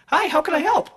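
very high, stiff robot greeting. Acted. Robot greeting the line cook, high and stiff. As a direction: chirp it like a cheerful robot.

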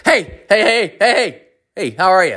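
high-pitched, rapid-fire repeated greeting; jittery crackhead. Retold or imitated. Crackhead behind him in the bank line, high and eager. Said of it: "like, a crackhead behind me".

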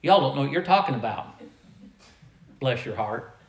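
a hint of mock South Carolinian twang; South Carolinian accent. Preacher joking about the accent he supposedly picked up, light South Carolinian accent. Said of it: "I've got a South Carolinian accent".

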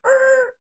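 high loud er cry; sudden high er yelp; er noise. Retold or imitated. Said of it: "everyone go, er".

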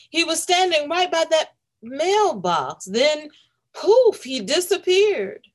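a bystander breathlessly explaining; hint of a startled storyteller; excited witness. A narrator's reading. Policeman describes vanishing bear.

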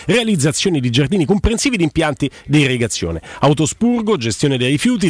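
upbeat sponsor read; infomercial. Acted. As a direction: read it like a radio ad. Host reads sponsor ad.

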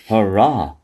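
low, flat monotone hurrah; monotone cheer. Pretend. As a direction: cheer without any excitement. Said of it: "monotone voice".

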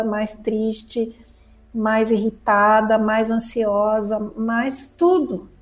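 ordinary talk

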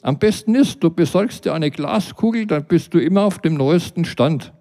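a nosy neighbour mocking him; neighbour Britta. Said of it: "meinte sie".

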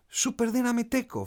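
put-on high, forceful child's battle cry. A narrator's reading. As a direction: shout it high with extra power, like a boy hero. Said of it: "φώναξε με περισσότερη δύναμη".

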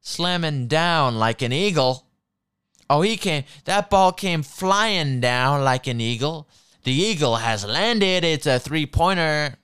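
mock play-by-play, stretched words; lightly hammed-up announcer calling the basket; punning commentator. Mocking commentators' terrible eagle puns, hammed-up announcer. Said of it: "like, puns, and it's just terrible".

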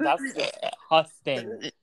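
slow, drawn-out disgust; grossed-out slow drawl. Real, not acted. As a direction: stretch it out in revulsion. Disgust at eating habits.

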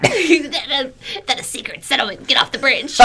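troll voice. Pretend. Troll voice at bridge.

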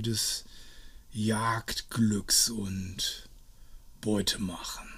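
langsam tonlos geflüstert; genüsslich raunen; Flüstern. A narrator's reading. (langsames Flüstern)

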